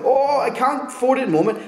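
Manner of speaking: high-pitched mock pleading; acted pleading. Debtor begging his creditor for time, mock pleading. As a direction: plead helplessly, pitch well up.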